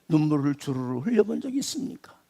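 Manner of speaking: unvoiced whispered question. Real, not acted. Preacher whispering a tender question to the congregation. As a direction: breathe 있습니까 as a secret whisper.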